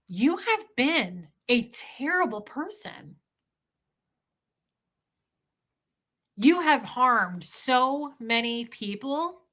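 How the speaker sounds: slow, measured words to an absent father; calm and deliberate, weighing each line; slow sincere confrontation. Retold or imitated. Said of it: "going to him and saying".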